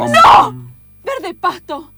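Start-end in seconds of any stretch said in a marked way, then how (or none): 0.0-0.5 high, loud wail; anguished cry. Acted. Luna crying out to the kids, high and loud.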